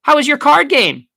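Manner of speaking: very high, loud small talk; over-cheerful question. A narrator's reading. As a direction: distract Papa with eager interest. Daughter distracting father at the door.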